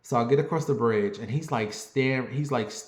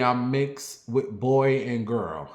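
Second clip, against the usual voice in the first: funny; slower than usual. Shown as a demonstration. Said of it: "I say it in a funny way".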